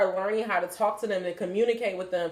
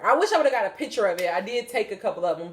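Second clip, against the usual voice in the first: ordinary talk, nothing marked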